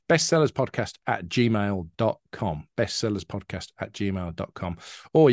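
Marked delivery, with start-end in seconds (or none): 0.1-2.7 careful slow email read-out; slow dictation. Shown as a demonstration. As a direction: say bestsellerspodcast at gmail dot com slowly, each part spaced out. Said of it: "you can get in touch".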